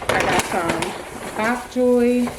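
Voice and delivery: talking with retainers in; lisping slightly around retainers; wearing a retainer. Real, not acted. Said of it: "I got my retainers in".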